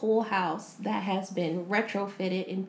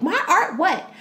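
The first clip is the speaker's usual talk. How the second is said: high "My art what?" with a laugh; half-laughing, offended wife; indignant disbelief; 7 semitones higher, 6 dB louder than usual. Retold or imitated. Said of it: "And she's like".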